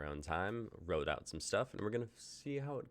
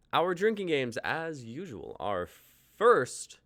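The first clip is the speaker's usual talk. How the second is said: louder, higher announcer voice for the rules; announcer build; 7 semitones higher, 7 dB louder than usual. Real, not acted. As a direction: announce it like a ringmaster.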